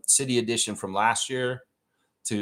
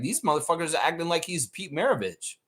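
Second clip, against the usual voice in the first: mock disbelief; 5 semitones higher than usual. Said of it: "I'm like".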